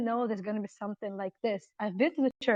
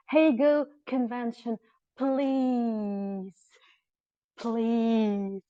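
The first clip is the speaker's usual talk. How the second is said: slow dictation; much slower than usual. Shown as a demonstration. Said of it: "So it actually says".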